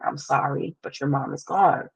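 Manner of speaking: quietly imitating a grieving dad; soft, understated retelling of breaking bad news; hushed and resigned, lightly acted; subdued grief. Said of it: "he took a deep breath".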